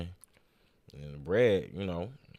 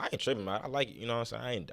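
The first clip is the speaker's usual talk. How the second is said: ordinary talk, nothing marked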